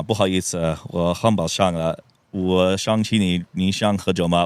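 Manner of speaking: slowed-down Mandarin apology and invitation; speaking Mandarin. Shown as a demonstration. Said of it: "Say it in Chinese".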